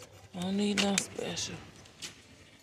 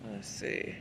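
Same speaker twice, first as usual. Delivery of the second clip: whispered to herself; soft whisper, reading closely; 7 dB quieter than usual. Real, not acted. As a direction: whisper it while reading the label.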